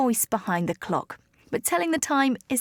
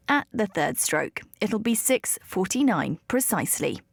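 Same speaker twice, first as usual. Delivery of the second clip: speaking clock impression; 3 semitones lower than usual. Shown as a demonstration. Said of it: "here's my very best attempt".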